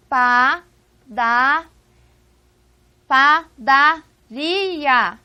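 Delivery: padaria as pa, da, ri, a, each held; loud, very slow pa - da - RI - A; syllable by syllable. Shown as a demonstration. Teacher has students separate padaria, drawn-out syllables. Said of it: "Separem pra mim".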